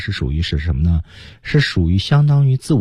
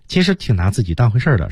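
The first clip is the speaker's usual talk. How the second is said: ordinary delivery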